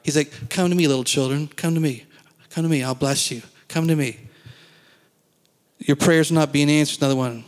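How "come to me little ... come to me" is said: gentle Jesus. Acted. Preacher voicing Jesus gently calling the children. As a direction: coax the children in tenderly. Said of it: "Jesus doesn't speak like that".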